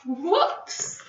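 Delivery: bright mock alarm; playful whoops. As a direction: cry it playfully. Playful exclamation.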